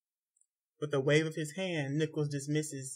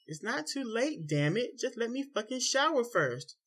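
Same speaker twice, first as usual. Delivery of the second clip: angry retort; 9 semitones higher than usual. A narrator's reading. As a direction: shout back at husband. Wife yells back in fight.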